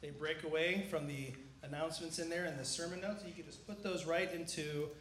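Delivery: talking around a cough drop; mouth full. Real, not acted. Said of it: "I have a cough drop in my mouth".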